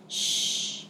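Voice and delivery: soft voiceless shush; frightened woman hushes the girl, soft and voiceless; gasped shush. Acted. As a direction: hush her in sudden fear. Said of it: "gasped the woman".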